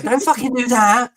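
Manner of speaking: high, laughing outburst; laughing protest. Retold or imitated. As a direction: laugh it out in mock horror. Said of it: "And I'm like".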